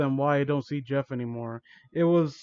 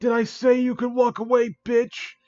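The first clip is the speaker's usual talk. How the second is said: higher, put-on mean-girl snap; snapped; 6 semitones higher than usual. A narrator's reading. Bully stops narrator walking away, snapping. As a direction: snap it like a hammed-up school bully. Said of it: "she snapped at me".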